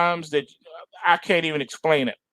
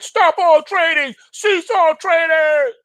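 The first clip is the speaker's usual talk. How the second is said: much higher, slow official proclamation; exchange official; 10 semitones higher, slower than usual. Retold or imitated. NYSE official halting trading, proclaimed much higher, slowly. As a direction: ring it out like the man at the bell. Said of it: "would have rang the bell and said".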